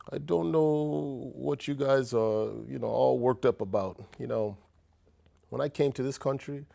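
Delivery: put-on Nigerian accent, dad's voice; light Nigerian accent. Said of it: "in his Nigerian accent".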